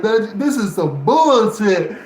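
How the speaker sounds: high, loud imitation of his homie's voice; imitating his friend. Vlogger imitating how his homie talked, high and loud. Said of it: "he talked like this".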